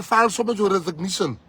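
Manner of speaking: high, loud cutting comeback; loud retort. Real, not acted. Answering the DA's court threat, loud retort. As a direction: throw it back at them.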